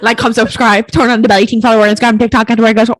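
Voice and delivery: fast, rattling sales patter; auctioneer. Acted. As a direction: reel it off like an auctioneer. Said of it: "You sounded like a bleeding auctioneer".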